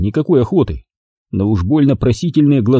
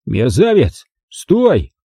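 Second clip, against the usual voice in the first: strained yelling after a fleeing thief; helpless yelling; much slower than usual. Acted. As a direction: yell in helpless fury. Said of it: "мог кричать это телеграфному столбу".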